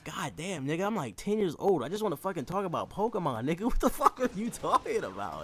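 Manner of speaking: high, disbelieving whine; incredulous kid. Retold or imitated. Ten-year-old Corey reacting to Josh, high disbelief. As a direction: squeak it out in disbelief. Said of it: "sitting there thinking".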